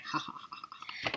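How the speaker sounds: soft, breath-only villain chuckle; plotter's cackle. Retold or imitated. Teasing cohost for plotting, mock sinister laugh. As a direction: imitate a schemer's quiet evil laugh. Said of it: "plotting ... rubbing your fingers together like".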